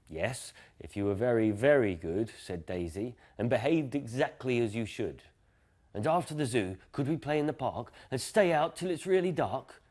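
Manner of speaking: gentle storyteller voice for children, voicing Dad and Daisy; bedtime story reading. A narrator's reading. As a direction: read it like a bedtime book to a little one. Reads bedtime story aloud.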